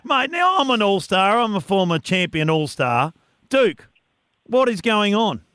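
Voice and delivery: high, drawn-out mock announcement, then incredulous; big mock-shocked cry, easing into teasing disbelief; sarcastic amazement. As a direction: hail the news with hammed-up, sarcastic astonishment. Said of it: "detect a little bit of sarcasm in your voice".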